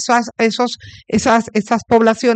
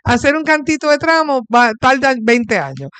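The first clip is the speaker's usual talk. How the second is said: higher-pitched ironic advice; ironic reassurance; 5 semitones higher than usual. Real, not acted. Host telling senator that everything here takes twenty years, ironic. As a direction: push the irony, voice lifted. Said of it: "Esto es una ironía".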